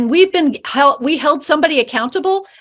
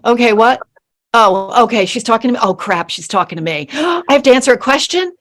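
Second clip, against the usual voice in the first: startled student. Retold or imitated. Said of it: "everybody is just like".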